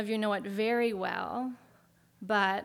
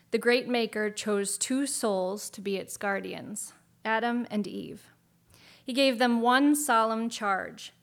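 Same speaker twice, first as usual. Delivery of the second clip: grand storybook narration; epic fantasy narrator; 4 dB louder than usual. A narrator's reading. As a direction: tell it like an old legend. Reads an AI fantasy story aloud.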